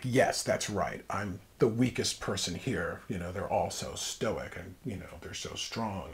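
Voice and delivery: slow, dry sarcasm; mock the idea that he's weak; sarcastic. Hospital patient sarcastically answering the old doctor, dryly mocking. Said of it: "I was really being sarcastic".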